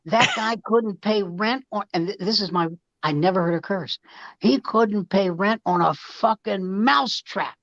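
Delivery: hammed-up furious wife tearing into her husband; mother exploding. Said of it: "one night she exploded".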